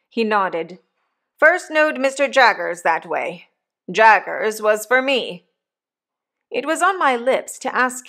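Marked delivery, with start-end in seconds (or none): 1.4-5.5 a lightly voiced rough old convict, louder; hint of a coarse old convict talking to his boy. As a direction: give the old convict a bluff, hearty push. Convict Magwitch voiced in story.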